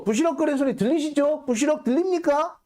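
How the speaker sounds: high, showy questioning; hammed-up presenter asking the court; mock courtroom presenter. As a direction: play it like a courtroom demo. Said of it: "이렇게 돼야지".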